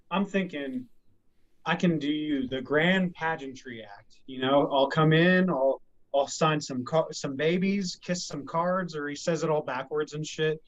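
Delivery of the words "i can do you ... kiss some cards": car salesman voice. Retold or imitated. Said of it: "Will Ferrell's the car salesman".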